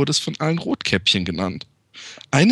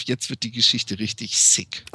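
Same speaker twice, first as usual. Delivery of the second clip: conspiratorial whisper; 3 semitones lower than usual. Real, not acted. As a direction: lean in and whisper it. Teasing the listener.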